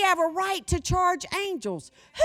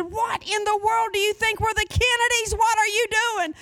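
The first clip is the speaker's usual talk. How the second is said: higher, exasperated scolding; husband's mock outrage; 7 semitones higher, 3 dB louder than usual. Husband getting the credit card bill, mock exasperated. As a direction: act out the husband fuming. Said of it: "He said".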